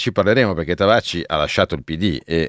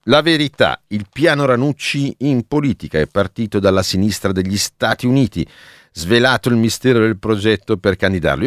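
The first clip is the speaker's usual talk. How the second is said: 1940s newsreel voice; 3 semitones higher than usual. Shown as a demonstration. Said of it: "mi viene sempre un po' la voce da cinegiornale degli anni quaranta".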